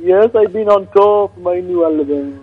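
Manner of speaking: daft put-on Scottish voice; ridiculous Scottish accent. Prank caller plugs his album, ridiculous Scottish accent. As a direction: play up a badly faked Scottish accent. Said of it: "better than this ridiculous one".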